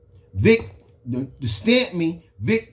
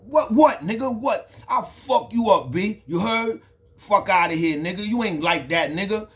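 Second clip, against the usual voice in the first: higher, heated retold threat; retold challenge; 4 semitones higher than usual. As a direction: square up and call his bluff. Acted confrontation in slippers.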